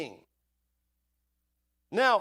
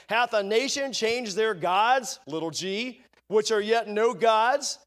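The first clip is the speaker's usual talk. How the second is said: scripture reading; 3 dB louder than usual. Acted. Preacher reading Jeremiah to the congregation, rising. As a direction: build the verse to its rebuke.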